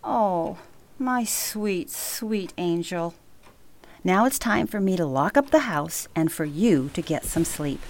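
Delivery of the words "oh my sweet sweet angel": slow, softer and tender. Acted. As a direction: melt as you say it. Grandma moved by granddaughter's hug.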